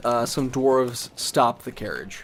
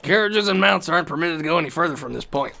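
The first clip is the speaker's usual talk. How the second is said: gate guard; 5 semitones higher, 4 dB louder than usual. Acted. Game master voices a gate guard.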